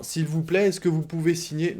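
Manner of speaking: high, quick plea from a canvasser; street petitioner. Retold or imitated. Canvasser stopping someone in the street, high and quick. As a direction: ask for the signature fast and high.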